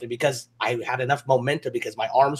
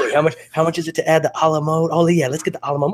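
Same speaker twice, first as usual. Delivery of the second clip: mock eager order; 2 semitones higher, 4 dB louder, faster than usual. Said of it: "I'm like".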